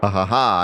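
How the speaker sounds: measured, gloating stage laugh; acted sinister chuckle; villainous laugh. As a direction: laugh like a villain who found his prey. Villain arrives to seize the family.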